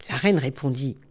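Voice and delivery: usual speaking voice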